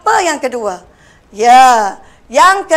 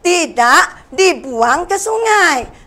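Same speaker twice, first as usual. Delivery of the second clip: "tidak dibuang ke sungai" dibaca perlahan, setiap kata jelas; slow model reading; slower than usual. Shown as a demonstration. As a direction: read "tidak dibuang ke sungai" slowly, word by word, as a model for pupils. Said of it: "Yang kedua pula". (baca "tidak dibuang ke sungai" perlahan-lahan sebagai contoh)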